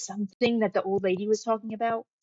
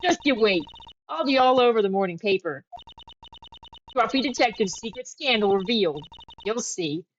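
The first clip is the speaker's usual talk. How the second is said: pushy reporter Lotta; 3 dB louder than usual. Acted. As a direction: push your way in like a nosy reporter.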